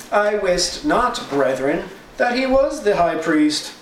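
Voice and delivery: high, slow sarcastic reply. Retold or imitated. Paul to the council, sarcastic mock innocence. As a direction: lay the irony on thick. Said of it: "Said in a sarcastic tone".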